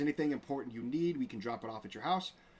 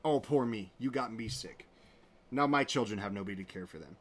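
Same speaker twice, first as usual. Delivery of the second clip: mock whiny self-pity; 2 semitones lower than usual. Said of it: "you turn it around and you're".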